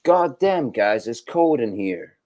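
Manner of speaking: mock American complaint about the cold; lightly mimicked American friend; imitating an American. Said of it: "if Ronnie was shivering, he would say".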